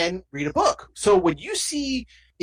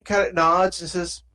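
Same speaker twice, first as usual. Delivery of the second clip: ordinary talk, nothing marked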